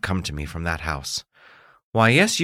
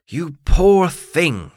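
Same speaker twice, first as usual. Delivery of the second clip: pitying cry; 9 semitones higher, 6 dB louder, much slower than usual. Acted. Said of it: "she cried".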